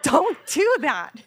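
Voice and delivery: loud, slow, high-pitched scold; retold scolding. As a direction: plead loudly after the fright. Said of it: "I'm like".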